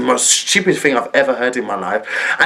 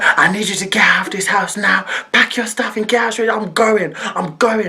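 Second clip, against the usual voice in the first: angry ordering; 5 semitones higher than usual. Retold or imitated. Retold auntie orders her out.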